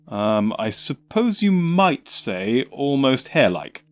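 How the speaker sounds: bluffing his way through; flustered Doctor. Acted. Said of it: "looked thrown off his stride".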